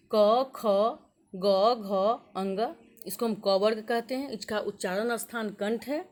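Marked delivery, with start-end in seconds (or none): 0.1-2.6 louder, emphatic chanting of the letters; teacher reciting consonants aloud; loud letter recital. Shown as a demonstration. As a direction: call out each letter to the class. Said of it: "यहाँ देखो".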